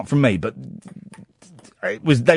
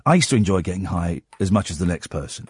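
reasonable talking-to; 8 semitones lower, 4 dB quieter, faster than usual. Retold or imitated. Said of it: "I did say, I said".

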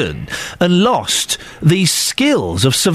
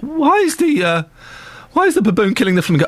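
imitating a small boy beginning to fret; mildly upset child's question, starting high; child getting upset; 3 semitones higher, faster than usual. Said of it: "the boy's starting to get upset".

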